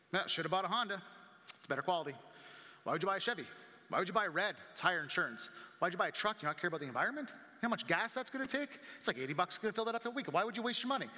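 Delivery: mock criticism, rising in pitch as objections pile up; disapproving friends. Friends react to the new truck, disapproving. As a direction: imitate nagging friends second-guessing a purchase.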